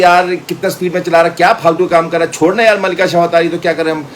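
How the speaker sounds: put-on high, loud girly chatter; Rachna's voice. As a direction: playfully voice the excited girlfriend. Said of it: "अब रचना बोली". (ऊँची, जोर की लड़की की आवाज़ में)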